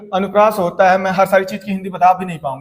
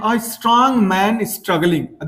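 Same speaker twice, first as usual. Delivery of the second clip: slow reading; much slower than usual. Shown as a demonstration. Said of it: "strong है".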